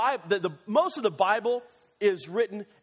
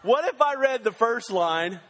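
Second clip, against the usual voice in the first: emphatic restart; 5 semitones higher, 5 dB louder than usual. Shown as a demonstration. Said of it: "sorry. Wrong line".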